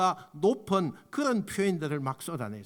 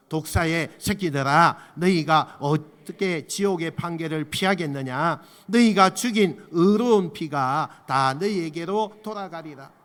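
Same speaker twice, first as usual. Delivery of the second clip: loud, forceful group reading of scripture; strong reading; 5 dB louder than usual. Shown as a demonstration. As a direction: read it out hard and strong, like a rebuke. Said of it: "좀 강하게 읽어도 돼요".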